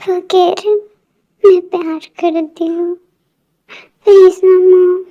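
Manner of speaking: tearful pleading, voice catching; crying plea. Acted. Daughter crying to her mother, begging her to call Jungkook, tearful. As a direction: beg her mother through tears.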